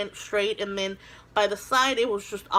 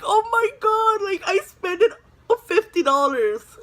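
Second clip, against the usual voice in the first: higher and louder, panicking; frantic realization; 9 semitones higher, 5 dB louder than usual. Retold or imitated. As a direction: blurt it out in a mock panic. Realizing she spent fifty dollars.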